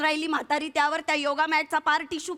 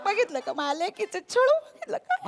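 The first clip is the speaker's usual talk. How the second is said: indignant; 4 semitones higher than usual. Acted. Complaining about daughter's torment.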